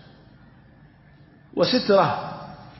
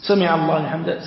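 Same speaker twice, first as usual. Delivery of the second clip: the imam's call سمع الله لحمده, said out clearly; imam announcing. Shown as a demonstration. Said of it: "قال الإمام".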